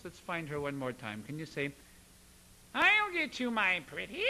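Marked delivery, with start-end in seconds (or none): 2.7-4.2 high, loud, twangy witch; cackly-witch twang, placed far forward; witchy voice. Shown as a demonstration. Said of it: "find that witchy voice as we go up high".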